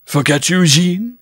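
lightly voiced indignant lover; lover's protest. A narrator's reading. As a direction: protest to your sweetheart, pitch climbing. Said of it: "he muttered".

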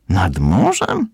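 slow, puzzled rising question; surprised slow question with a rise. Acted. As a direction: ask it as if it makes no sense. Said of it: "zdziwił się Rysio".

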